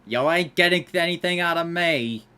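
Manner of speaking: loud, high, falling at the end; defiant declaration. Pretend. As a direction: state it firmly, ending down. Defying the Mafia in game.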